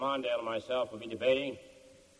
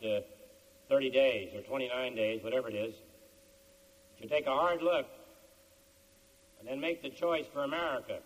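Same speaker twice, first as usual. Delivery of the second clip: measured, earnest appeal to voters; campaign speech closing; 5 semitones higher, 4 dB quieter than usual. Real, not acted. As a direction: close a formal speech in deliberate, spaced phrases.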